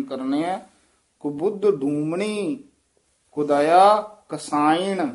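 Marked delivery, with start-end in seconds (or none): 1.2-5.1 ਕੁਬੁੱਧ said with a clear short u on ਕੁ and ਬੁੱ; dulainkar u sounds. Shown as a demonstration. Teacher models the u vowels for the student. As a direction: keep both u sounds in ਕੁਬੁੱਧ and ਡੂਮਣੀ crisp. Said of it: "ਕੁਬੁੱਧ ਡੂਮਣੀ ਦਲੈਂਕੜ ਨਾਲ ਹੀ ਉਚਾਰਨ".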